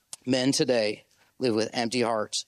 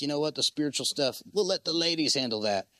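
dismissive men. Retold or imitated. Preacher mocking men who leave church, lightly raised. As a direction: toss it off like a guy passing the buck. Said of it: "They're like".

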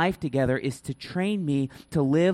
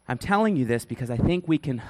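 winded, out of breath from the demo. Real, not acted. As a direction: speak out of breath, catching air. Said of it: "I'm out of breath".

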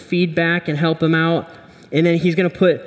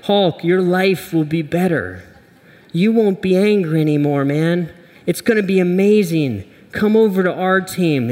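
Superman voice; 3 semitones higher than usual. Acted. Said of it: "And he's like".

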